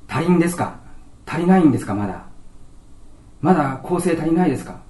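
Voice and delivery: patient asking the doctor in mock dismay.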